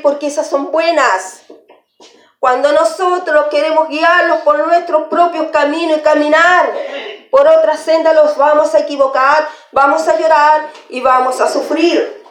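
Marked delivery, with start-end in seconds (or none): 2.4-12.2 raised, emphatic preaching voice. Acted. Preacher warning believers against choosing their own path, preaching. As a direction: warn the congregation with rising fervor.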